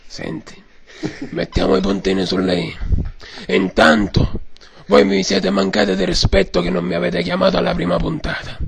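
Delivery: hoarse mock mafia boss; Godfather voice. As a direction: lecture them like a don. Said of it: "signor Padrino".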